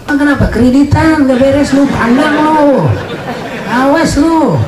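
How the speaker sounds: high, taunting threat in a lightly put-on voice; mock threatening voice. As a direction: wag a finger and taunt the debtor. Mock threat to sinners about hell. (ancaman mengejek, suara tinggi)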